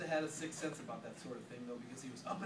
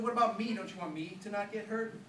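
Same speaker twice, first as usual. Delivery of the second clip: indignant protest; 6 semitones higher, 7 dB louder than usual. Acted. Charlie protests being endangered.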